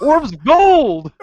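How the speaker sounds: slow savoring. Acted. A joker relishes the treasure, slowly and grandly. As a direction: stretch every word, relishing it.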